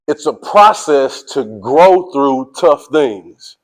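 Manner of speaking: slow, deliberate line with "grow" stretched out; stress on grow. Shown as a demonstration. Coach quizzes the team to catch the key word, slow stress on "grow". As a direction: lean on the word "grow", drawing it out slowly. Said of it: "Emphasis on grow".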